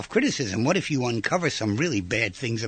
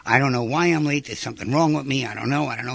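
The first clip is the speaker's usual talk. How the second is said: self-deprecating friend; 3 dB louder, faster than usual. Retold or imitated. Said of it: "She puts herself down".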